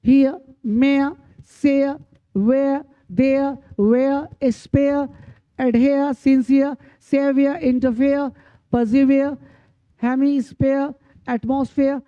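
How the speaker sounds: word-list demo, "-ere" said as a glide into "ah"; vowel plus AH ending. Shown as a demonstration. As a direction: end each word like हियर, मेयर in an open "ah", no r. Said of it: "ई आ होती है".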